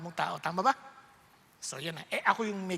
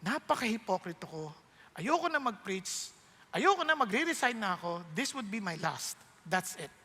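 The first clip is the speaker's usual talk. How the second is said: despairing prayer; 4 dB quieter than usual. Retold or imitated. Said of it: "Sabi ko".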